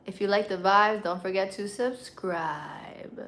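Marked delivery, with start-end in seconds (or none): 1.0-3.2 slow breathy whisper. Acted. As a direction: whisper it slowly like a secret. Whispered aside to viewers.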